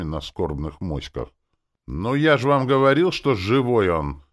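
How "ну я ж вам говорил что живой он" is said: loud, high triumphant outcry; exclamation. A narrator's reading. Rene exclaims to the mourners, loud and excited. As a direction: call it out over a tense hush. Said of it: "раздался возглас Рене".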